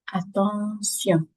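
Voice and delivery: attention said slowly, ending /sjɔ̃/; French attention. Shown as a demonstration. Teacher slowly modelling attention in French. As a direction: attention with an S sound, not the English sh. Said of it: "ça se prononce sion".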